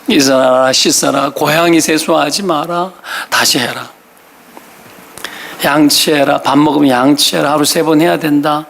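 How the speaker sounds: monotone list of nagging orders; parental nagging. Retold or imitated. Parent listing morning chores to children, droning mock nagging. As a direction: recite chores like a worn-out routine. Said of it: "계속 잔소리 하는 거죠".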